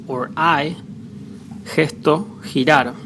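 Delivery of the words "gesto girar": "gesto, girar" with G as a strong rasped Spanish J; strong J sound. Shown as a demonstration. Spanish teacher showing G before E or I, "gesto, girar" with strong J. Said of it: "the strong J".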